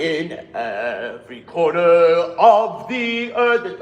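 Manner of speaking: "In every corner of the earth" sung strong and slow; forte. Shown as a demonstration. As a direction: sing it forte, the main melody. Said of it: "sing it forte".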